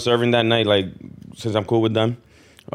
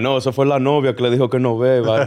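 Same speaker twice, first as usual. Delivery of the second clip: mocking barbers; 2 semitones higher, 3 dB louder than usual. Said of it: "They were, like, laughing and shit".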